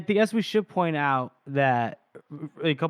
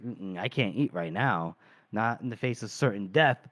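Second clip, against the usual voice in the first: imitating a queasy refusal, low and subdued; retold reluctant refusal; 8 semitones lower, 5 dB quieter than usual. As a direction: hesitate softly, voicing her low. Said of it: "she goes".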